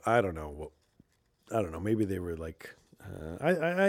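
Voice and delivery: ordinary talk, nothing marked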